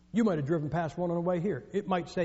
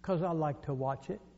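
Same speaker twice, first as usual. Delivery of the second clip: Southern gentleman; 3 semitones lower, 8 dB quieter than usual. Acted. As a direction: answer softly in a deadpan Southern accent. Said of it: "there was a sweet Southern gentleman".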